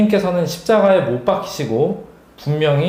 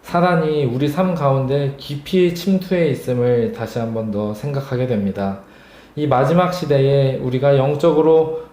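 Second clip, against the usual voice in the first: prayer voice. Acted. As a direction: pray it gently and sincerely. Leads closing prayer.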